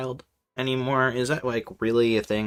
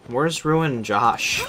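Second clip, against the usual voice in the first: ordinary talk, nothing marked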